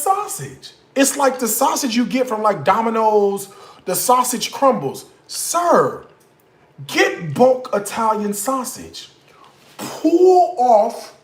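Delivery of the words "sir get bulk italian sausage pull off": scolding. Real, not acted. Scolding the pizza owner.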